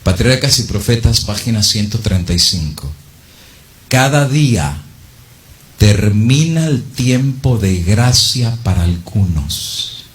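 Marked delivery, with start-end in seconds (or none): 3.9-10.0 slow, weighty quotation; solemn reading. Acted. Preacher reads the book to the congregation, slow and weighty. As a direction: read it like a final warning.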